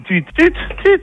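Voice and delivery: high mimicked phone beep; imitated beep. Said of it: "c'est lui qui le dit".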